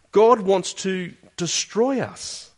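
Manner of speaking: hammed-up despair; grumbling Israelites. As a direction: act out their fearful self-talk. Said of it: "Listen to what they say".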